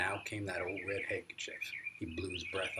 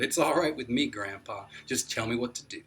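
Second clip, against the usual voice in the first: blurted out; 3 semitones higher, 9 dB louder than usual. A narrator's reading. Boy eagerly blurts his yes to grandpa, loud. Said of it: "I reared back and blurted".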